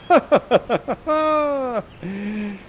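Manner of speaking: high juddering cry that trails out; stuttered magic noise. Acted. Sorcerer's spell takes hold, high juddering cry. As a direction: stutter out a long, high vocal effect.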